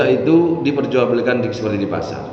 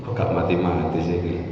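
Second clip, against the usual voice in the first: low, soft grumble to herself; grumbling under breath; 6 semitones lower, 6 dB quieter than usual. Retold or imitated. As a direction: mutter it as an annoyed caregiver wife.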